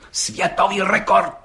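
solemnly. A narrator's reading. Policeman repeats the record to the judge, solemnly. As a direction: announce it like a proclamation. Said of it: "opakoval četník Hejda slavnostně".

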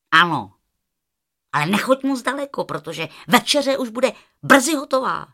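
put-on busy aunt warning the girl, quick; aunt's reply. Aunt at the stove tells Rozárka not to wander, brisk and loud.

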